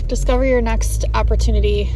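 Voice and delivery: loud, clear read of the sign. Shown as a demonstration. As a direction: announce the sign's words proudly. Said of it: "I can't read it".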